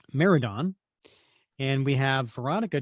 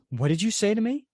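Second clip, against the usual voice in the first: higher-pitched acted affront; mildly indignant; 7 semitones higher than usual. Reader voices a hero insulted by a teammate, indignant. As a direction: challenge them, pitch raised. Acted quarrel between team members.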